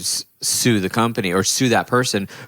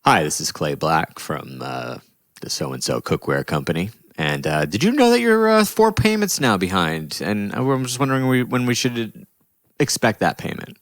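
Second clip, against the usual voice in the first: higher, sweet phone-sales voice; polite collector voice; 3 semitones higher than usual. Retold or imitated. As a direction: put on a chirpy caller voice. Retold collector phone script.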